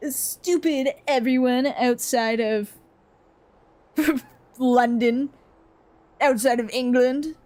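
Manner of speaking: lightly voiced scornful snob, drawn out at first; mock a superior Londoner, lingering on the opening; mock British snob. British person scorning everyone outside London, lightly mocked snobbery. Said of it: "they'll be like".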